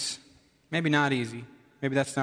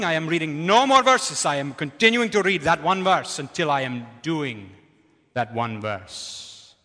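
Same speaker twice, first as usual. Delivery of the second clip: lightly voiced deep booming friend, louder; Saji's booming voice; 5 dB louder than usual. Pastor quoting friend Saji to the congregation, in a lightly booming voice. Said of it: "deep booming voice".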